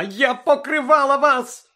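high, loud, slow accusing shriek. A narrator's reading. Hermione to Lupin, betrayed, shrieking slowly high and loud. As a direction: throw it at him as an accusation. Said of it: "заверещала Герміона".

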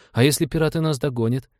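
put-on insistent small boy, high-pitched; Рики. A narrator's reading. Boy keeps asking about pursuing pirates, insistent high child voice. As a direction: keep pestering in a child's voice. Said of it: "не унимался Рики".

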